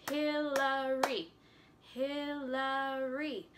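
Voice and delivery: slow, Hillary split in three beats; clapped syllables. Shown as a demonstration. Teacher claps her own name for kids, slow three beats. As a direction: say Hillary as Hil-la-ry slowly. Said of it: "Let's try it with mine".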